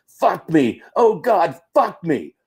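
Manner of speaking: slow, drawn-out, dragged-out yelling. Retelling a woman in a truck during a fight: imitating someone yelling. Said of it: "started yelling".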